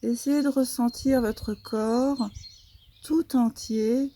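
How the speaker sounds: soft, unhurried yoga nidra guidance; guided relaxation. Real, not acted. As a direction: guide the body into rest, softly, with long pauses.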